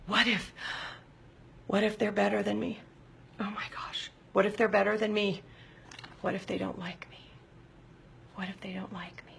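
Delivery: hushed, fearful whisper; suffocating fear. Acted. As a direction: whisper the dread, fading almost to nothing. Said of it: "Suffocating fear".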